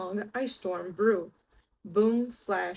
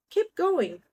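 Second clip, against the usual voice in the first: calling out; 9 semitones higher, 5 dB louder than usual. Acted. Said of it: "the friendly animals called".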